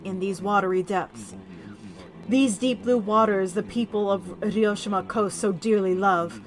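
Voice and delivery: a dying king saying farewell, solemn; dying dragon king. Acted. Reads dying dragon king's lines.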